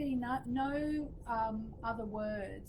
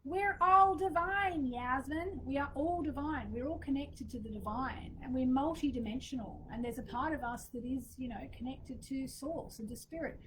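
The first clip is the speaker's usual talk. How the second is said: put-on Laura Day's New York accent; 3 semitones higher than usual. Friend quoting her New York mentor, light New York accent. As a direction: lightly imitate a New York accent, starting big on "all". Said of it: "She always says in her New York accent".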